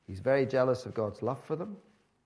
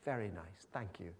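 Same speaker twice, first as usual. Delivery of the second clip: mock-pleased Jonah enjoying his shade; lightly voiced self-satisfied Jonah; Jonah content; 11 dB quieter than usual. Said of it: "He thought".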